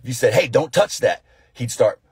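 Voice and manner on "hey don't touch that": mildly raised parental warning; acted stern command, a bit louder and higher. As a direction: warn a child off sharply. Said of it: "if you raised your voice at him".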